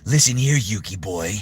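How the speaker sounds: Kaiba voice. Shown as a demonstration. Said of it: "So Kaiba's down".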